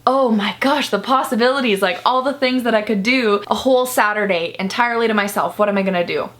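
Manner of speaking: playful mock excitement; excited. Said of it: "And I was like".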